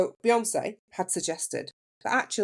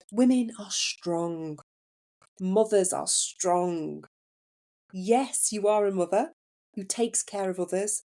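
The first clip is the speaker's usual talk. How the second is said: slow, measured Indian accent, imitated; soothing Indian accent; slower than usual. Nurse holding a patient's hand, encouraging her, soothing Indian accent. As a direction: reassure deliberately in an Indian accent. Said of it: "soft and soothing Indian accent".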